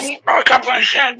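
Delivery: hammed-up Australian accent, pitched high; mock Aussie bloke. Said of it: "Is this a good Australian accent?".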